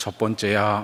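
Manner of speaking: low, deep, dropped voice. Retelling what her husband said when his horse stumbled, in a low voice. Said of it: "그 낮은 목소리로 이렇게 얘기하는 거예요".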